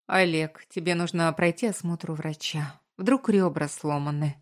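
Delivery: plain reading voice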